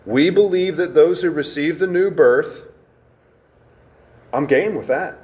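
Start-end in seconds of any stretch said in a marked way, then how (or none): 0.0-2.7 deliberate, emphasized reading of the whole phrase; emphatic reading. Shown as a demonstration. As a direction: read it out with firm emphasis. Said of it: "Let me emphasize this sentence again".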